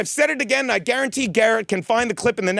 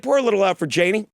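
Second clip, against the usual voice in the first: normal talking voice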